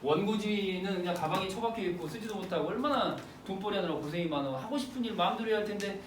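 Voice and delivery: lightly acted sympathetic indulgence; a touch of soothing pity; mild consoling. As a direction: humour the poor drunk gently. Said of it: "처음에는 이제 받아주죠".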